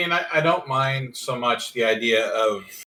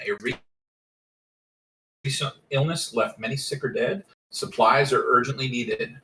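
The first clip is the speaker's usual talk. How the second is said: reading the setting aloud; steady, measured rulebook read; game master narration. Acted.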